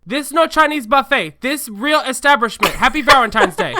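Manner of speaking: loud, high, hammed-up Asian-accented manager; mock Asian accent. Co-host voicing the manager to the diners, mock Asian-accent shouting. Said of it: "very thick Asian accent".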